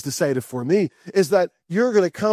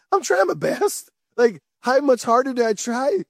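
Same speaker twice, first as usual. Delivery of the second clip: exasperated plea; 4 semitones higher than usual. Retold or imitated. Worn-out believer pushed to try harder.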